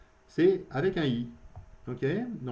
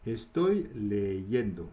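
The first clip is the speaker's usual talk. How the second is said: slow model phrase; 4 semitones lower, much slower than usual. Shown as a demonstration.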